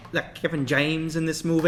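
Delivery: lightly voiced southern mogul; southern movie mogul. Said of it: "That was my movie mogul impression".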